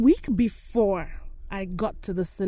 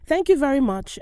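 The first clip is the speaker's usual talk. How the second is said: higher-pitched polite thanks; retold courteous reply, pitched up; very nice; 6 semitones higher, 3 dB louder than usual. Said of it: "I was very nice about it".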